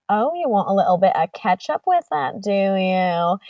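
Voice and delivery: put-on British accent, wobbly. Staff mimicking British manager, put-on British accent. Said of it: "I have a manager at work and he's British".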